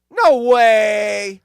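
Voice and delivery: loud, high astonished exclamation; surprised. Real, not acted. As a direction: genuine disbelief. Surprised reading story.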